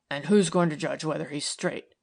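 a hint of a doubting man pushing the point; persistent. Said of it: "persisted Tom".

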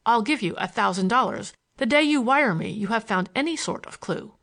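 lightly voiced bossy schemer giving orders; impatient schemer, urgent. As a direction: press the instructions on a hired man. Villain gives Bates orders.

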